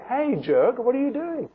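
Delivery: mock indignant scolding; rude challenge. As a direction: confront him as if he were a jerk. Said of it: "He didn't say that".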